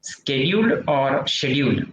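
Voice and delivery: "Schedule" slowly with sk, then "schedule" with sh; dwie wymowy słowa. Shown as a demonstration. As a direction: contrast the sk and sh starts of "schedule". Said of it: "Which one is correct?".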